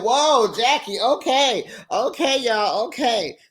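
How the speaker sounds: calm them down, alarmed. Retold or imitated. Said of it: "I said".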